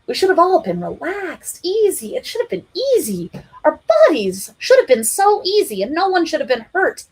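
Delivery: high insistent complaint; high whiny should; aggrieved plea. A narrator's reading. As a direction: press the grievance.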